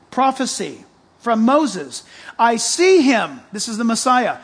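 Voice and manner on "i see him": yelling scripture. Real, not acted. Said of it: "I'm yelling at you guys".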